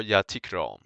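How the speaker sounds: "Jag tycker om" spoken as native Swedish; Swedish phrase. Shown as a demonstration. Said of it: "we can say".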